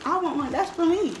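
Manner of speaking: loud. Real, not acted. Squabbling with mom over food.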